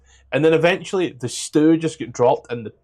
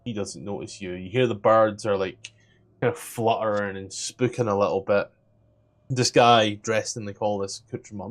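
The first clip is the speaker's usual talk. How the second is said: understated storyteller's suspense; game master narration; 4 semitones lower than usual. Acted. Game master sets scene.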